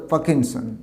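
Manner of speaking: পার্কিনসন as "pa-kin-son"; corrected pronunciation. Shown as a demonstration. Teacher repeating the right form, পার্কিনসন without r. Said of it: "উচ্চারণটা হবে".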